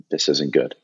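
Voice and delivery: low and soft, almost to himself; hushed, sinking realization; murmured worry under his breath; quiet dread. Retold or imitated. Seeing his ill dad with doctors.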